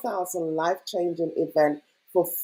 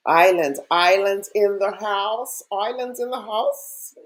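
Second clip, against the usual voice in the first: a hammed-up, not very convincing Irish accent, called out loud; bad Irish accent; 2 semitones higher, 4 dB louder than usual. Host greeting Irish viewers in the chat, in a bad Irish accent. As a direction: shout it out in a mock Irish accent, badly done. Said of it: "that is a bad Irish accent".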